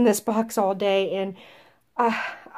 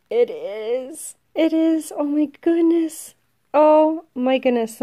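much higher, loud delighted cries; overjoyed; 7 semitones higher, 4 dB louder than usual. Real, not acted. Vlogger holding the wanted mouse, overjoyed. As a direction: gush with disbelief.

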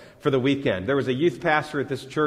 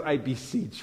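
fond recitation; 6 dB quieter than usual. Shown as a demonstration. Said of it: "I love those words".

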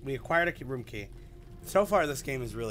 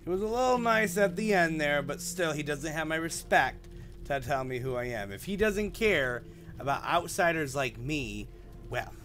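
irritated; 3 semitones higher, 4 dB louder than usual. Real, not acted. Streamer still irritated by villager.

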